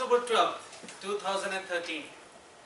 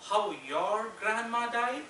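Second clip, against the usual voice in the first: slow, drawn-out mum's reminder; lightly voiced mother guilt-tripping her son; 3 semitones higher than usual. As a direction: stretch it into a slow motherly reproach. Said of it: "My ma reminded me".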